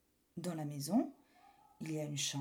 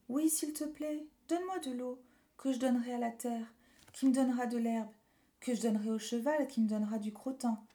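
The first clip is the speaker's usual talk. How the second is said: put-on small boy voice; 3 semitones higher than usual. Boy pleads with river.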